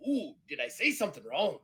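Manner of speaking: high, mock-innocent pirate voice; Eddie Teach. Pirate answering an angry look from crewmate, high mock-innocent voice. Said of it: "and he goes".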